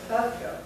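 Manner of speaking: "up go" with a short "uh" opening; schwa first syllable. Retold or imitated. Teacher repeats what she heard students say, short schwa first. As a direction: imitate the class starting "ago" on "uh". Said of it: "what I heard you say was".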